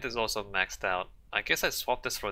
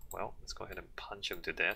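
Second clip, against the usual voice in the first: ordinary delivery, nothing marked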